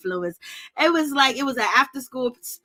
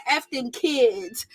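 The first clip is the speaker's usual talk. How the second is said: slow quote; much slower than usual. Retold or imitated. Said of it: "And she said".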